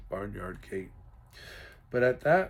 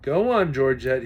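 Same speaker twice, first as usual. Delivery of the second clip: urging cow; 10 dB louder than usual. Acted. Dad pushing cow, breathing hard.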